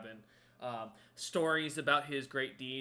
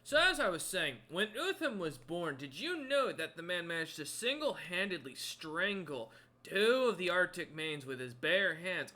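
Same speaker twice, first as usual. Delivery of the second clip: boastful storyteller, higher and animated; Hagnon; 4 semitones higher, 6 dB louder than usual. Acted. Guide telling three visitors of Utham's feats, boastfully animated. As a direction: brag about your hero with relish. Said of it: "Hagnon kinda ushers you ... and goes".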